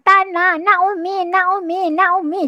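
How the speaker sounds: put-on child whining. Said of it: "Anak kita merengek".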